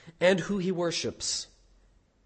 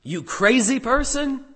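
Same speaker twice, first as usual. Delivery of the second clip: shocked exclamation; 2 semitones higher, slower than usual. Acted. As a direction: drag out the disbelief, then burst. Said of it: "Their exclamation is equivalent to saying".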